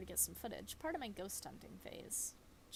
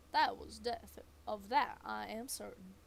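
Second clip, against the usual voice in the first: ominous; 5 dB louder than usual. Acted. Ominous pronouncement in the mine.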